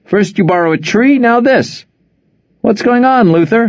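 high, loud, teasing call; rather loud. Acted. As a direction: call it out for the crowd. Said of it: "he said rather loudly".

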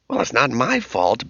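a hint of an indignant girl; lightly voiced teen protest. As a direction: daughter defending herself, mildly indignant. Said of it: "Becky said indignantly".

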